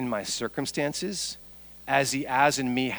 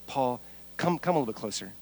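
gentle coaxing; 3 semitones lower, 5 dB quieter than usual. Acted. God gently drawing Paul near.

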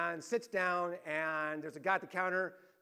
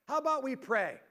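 retold call, higher and a bit louder; yelled out; 5 semitones higher, 4 dB louder than usual. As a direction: call it out across the room. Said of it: "he yelled out in front of everybody".

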